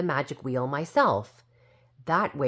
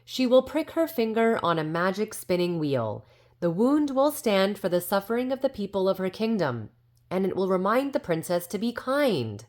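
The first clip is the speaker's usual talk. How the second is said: proclaimed spell; 5 semitones higher than usual. Acted. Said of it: "I shouted".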